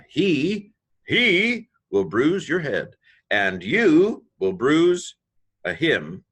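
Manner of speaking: slow, high and loud recitation of the verse. Shown as a demonstration. Teacher reads the whole verse out slowly for students. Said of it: "reads the verse in full".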